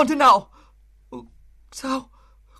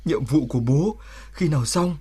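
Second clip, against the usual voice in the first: tender; 5 semitones lower than usual. Acted. Border soldier speaking tenderly to his newborn son. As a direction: speak gently, holding back feeling.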